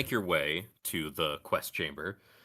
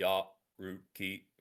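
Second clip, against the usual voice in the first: muffled, robotic voice. A narrator voices someone knocking at the listener's door, in a muffled robotic voice. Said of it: "a muffled robotic voice through your door says".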